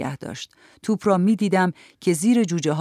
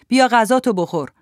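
higher, louder summons to eat; Mrs Gruberg/calling out; 5 semitones higher, 5 dB louder than usual. A narrator's reading. Grandmother to grandson in the yard, calling out. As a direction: call across the yard, voice raised. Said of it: "خانم گروبرگ رو به حیاط داد کشید".

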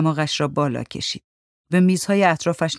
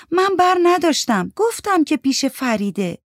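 defensive denial; 11 semitones higher than usual. Acted. Mandana denies taking phone.

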